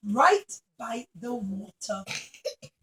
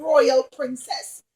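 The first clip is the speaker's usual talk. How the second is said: worried clown; 5 dB louder than usual. Acted. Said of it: "And the clown said".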